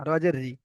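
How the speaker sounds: রজের রি with a short রি; no elongation on রি in রজের রি; short RI, no stretch. Shown as a demonstration. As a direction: spell out রজের রি, cutting the last vowel short. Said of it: "এখানে আমি টান করবই না".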